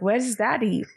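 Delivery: lightly put-on British child's accent, like Peppa Pig. Mom imitating her son at daycare pickup, Peppa Pig accent. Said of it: "this Peppa Pig accent".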